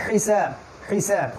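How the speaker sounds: slow হিসাব with a throaty হা from the middle of the throat; correct Arabic pronunciation. Shown as a demonstration. Teacher correcting how students say the word, slowly. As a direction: stretch out হিসাব, the হ pushed down from the throat. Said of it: "আসলে শব্দটা".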